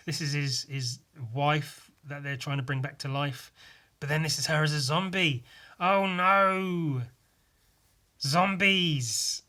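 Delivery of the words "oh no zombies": mock panic. Mock panic at zombie panel.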